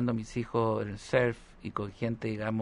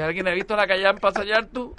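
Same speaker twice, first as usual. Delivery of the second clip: posh mock question; 7 semitones higher, 3 dB louder than usual. Pregunta pija fingida.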